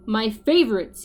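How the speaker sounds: the giant roaring over jelly beans; mild roar. Acted. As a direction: roar it delightedly. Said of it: "he roared with a grin".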